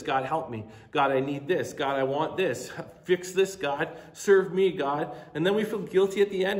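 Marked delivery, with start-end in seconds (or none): 0.0-5.2 mock needy, louder pleading; imitating a self-centred believer's demanding prayer. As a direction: rattle off selfish demands to God. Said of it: "jump into our prayers like this".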